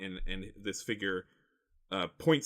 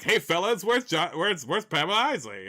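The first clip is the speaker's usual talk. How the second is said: higher, louder, chummy impression; John C. Reilly; 7 semitones higher, 6 dB louder than usual. Villain asks the fellas for Isley, higher and chummy. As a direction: call out to the fellas in an imitated voice. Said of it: "like John C. Reilly".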